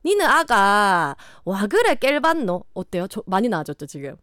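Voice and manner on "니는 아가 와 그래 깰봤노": slow, native-sounding Gyeongsang dialect; 경상도 사투리. Shown as a demonstration. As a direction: show off a convincing Gyeongsang lilt, drawn out. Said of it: "이거 완전 네이티브가 됐죠?". (원어민처럼 늘여 말하는 경상도 사투리)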